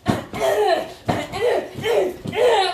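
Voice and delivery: high, loud, laughing eh eh eh; mock dance grunts. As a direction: hype it up like he's dancing mid-show. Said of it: "homeboy was just like".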